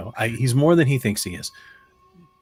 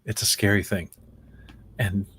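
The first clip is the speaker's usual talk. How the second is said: scared. Acted. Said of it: "I'm scared".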